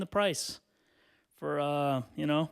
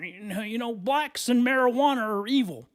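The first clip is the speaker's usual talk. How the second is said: put-on old-fashioned announcer voice; 6 semitones higher, 4 dB louder than usual. Mocking old-time scaremongers.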